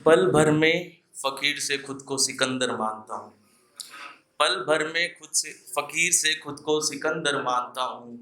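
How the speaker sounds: measured, lingering poetic delivery with repeated lines; shayari recitation. Acted. Poet reciting love shayari to an audience, measured and lingering.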